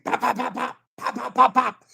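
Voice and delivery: soft, rapid popping; light percussive mouth pops; imitated punch sounds. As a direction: mimic punches hitting the pads. Imitating punches on hand pads.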